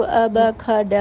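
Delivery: phonics, not letter names; phonic sounds demo. Shown as a demonstration. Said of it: "اے، بی، سی، ڈی نہ پڑھائیں".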